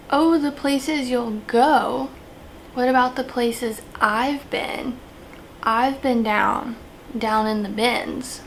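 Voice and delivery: slow, hammed-up poetry recital; mock slam poetry. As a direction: draw out each line like an earnest slam poet. Continues the improvised mock slam poem.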